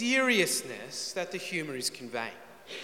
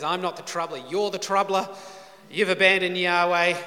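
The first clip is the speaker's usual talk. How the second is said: a retort that builds louder; accusing retort; 2 semitones higher, 5 dB louder than usual. Acted. Elijah answering Ahab, accusing retort. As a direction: turn the charge back, rising in force.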